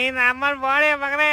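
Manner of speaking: mock crying. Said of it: "ಯಾಕೆ ಅಳ್ತಾ ಇದ್ಯಾ?".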